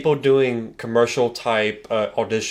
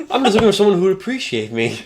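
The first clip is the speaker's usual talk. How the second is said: barbarian; 8 semitones higher, faster than usual. Retold or imitated. Quoting the Viking guy.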